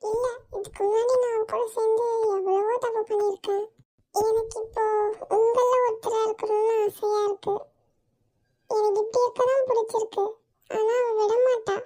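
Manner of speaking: soft, teary confession with catches of crying; tearful. Acted. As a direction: speak through quiet tears, afraid of losing him. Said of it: "இதுக்கெல்லாமா அழுவாங்க?".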